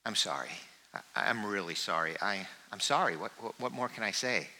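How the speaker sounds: a quiet, broken-down plea for forgiveness; sorrowful confession. Pretend. Congregant's voiced confession prayer.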